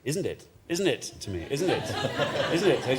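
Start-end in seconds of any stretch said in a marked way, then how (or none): 0.0-1.0 lightly imitated garage man; catchphrase quoted back in a mild put-on voice. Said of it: "the guy in the garage who just said". 1.5-3.0 lightly imitated garage man. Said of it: "the guy in the garage who just said".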